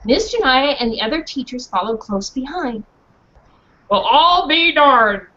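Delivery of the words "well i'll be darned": surprised man. Acted. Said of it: "said the man".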